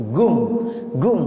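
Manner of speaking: Egyptian "gum", hard g for qaf; Egyptian dialect. Shown as a demonstration. Teacher imitating Egyptians, Egyptian-dialect "gum". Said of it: "Jadi dialeknya begitu".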